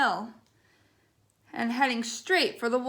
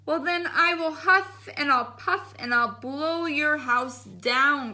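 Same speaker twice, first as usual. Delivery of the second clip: a hint of a growling wolf; lightly voiced wolf threatening the pig; growled wolf threat; slower than usual. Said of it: "growled the wolf".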